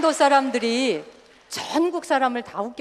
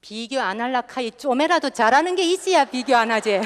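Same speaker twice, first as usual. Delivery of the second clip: Gyeongsang woman retort; 3 semitones higher, 4 dB louder than usual. Retold or imitated. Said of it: "경상도 여자들에게".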